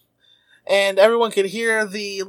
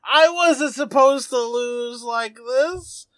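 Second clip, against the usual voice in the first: lightly acted, slow pleading of a loser; mock distress, pleading with a rival; Espa tearful plea; 2 semitones higher than usual. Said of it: "falls to his knees in tears".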